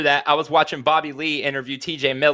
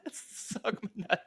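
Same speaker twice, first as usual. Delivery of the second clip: whisper; 3 semitones higher, 15 dB quieter, slower than usual. Acted. Joking comeback after robot jab.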